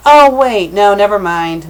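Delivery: loud, startled self-correction; sudden realization. Real, not acted. Reader realizes they misread the story, loud and startled. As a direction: burst out as the mistake dawns.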